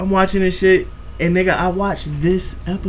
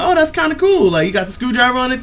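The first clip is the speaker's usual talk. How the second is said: mock cheerful teacher; 6 semitones higher, faster than usual. Cheerful teacher voiced in story.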